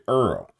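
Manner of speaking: "Earl" for "oil", one r-colored syllable; "Earl", rhymes with pearl. Shown as a demonstration. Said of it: "instead of saying oil, we say Earl".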